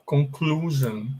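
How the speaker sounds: "conclusion" slowly, with oo then zhun; English pronunciation demo. Shown as a demonstration. Teacher pointing out the U in conclusion, slow pronunciation demo. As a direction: say "conclusion" as con-CLOO-zhun, unhurried. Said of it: "Aqui tem o U".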